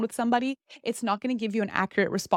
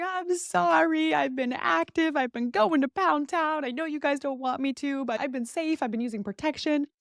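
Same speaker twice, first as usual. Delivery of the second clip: imitating crying; 6 semitones higher than usual. Friend confessing to her mom, mock tearful and high. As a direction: plead through pretend tears, higher. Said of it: "starts breaking down crying".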